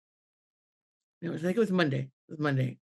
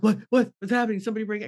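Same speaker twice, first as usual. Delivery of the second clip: startled waking husband; 3 semitones higher, much faster than usual. Retold or imitated. Husband woken up by his wife, startled. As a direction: blurt it like someone just woken.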